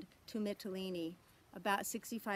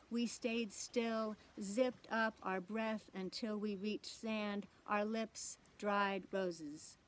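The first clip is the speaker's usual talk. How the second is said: poetry reading. Acted. Poet reads a sea-crossing poem to a conference, measured poetry reading. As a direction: read it as verse, lingering on key words.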